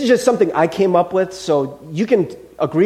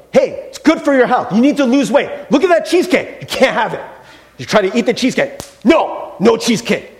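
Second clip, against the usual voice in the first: nagging voice; 3 semitones higher, 3 dB louder than usual. Retold or imitated. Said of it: "Or how about this?".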